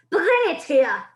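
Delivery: put-on a witch shouting to bring the boy to her. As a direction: drag the words out as an order. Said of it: "shouted the Grand High Witch".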